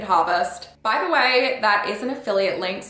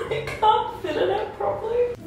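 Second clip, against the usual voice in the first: laughing; 13 semitones higher than usual. Real, not acted. Laughing at tiny bathtub.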